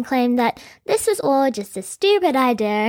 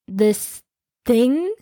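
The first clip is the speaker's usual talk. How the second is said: disgusted. Acted. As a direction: spit the words with contempt. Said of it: "he said in disgust".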